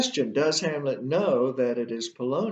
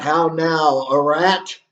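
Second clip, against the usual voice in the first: loud acted exclamation; crying out; 7 dB louder, slower than usual. Hamlet hearing someone behind the arras, crying out. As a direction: call it out forcefully, voice raised. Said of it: "he cries out himself".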